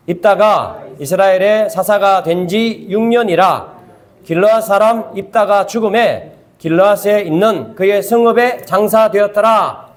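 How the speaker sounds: slow, measured Bible reading; steady recitation with drawn-out phrase endings; scripture reading in unison. Real, not acted. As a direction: lead a congregation reading aloud, phrase by phrase. Leads congregation in reading the verse.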